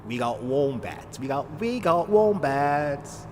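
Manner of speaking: slow, drawn-out mock Australian accent. Streamer joking about wombats, slow put-on Australian accent. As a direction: stretch it out in a playful Aussie accent.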